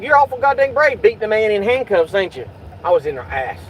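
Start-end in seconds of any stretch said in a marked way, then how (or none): 0.0-2.5 taunting. Retold or imitated. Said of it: "I said".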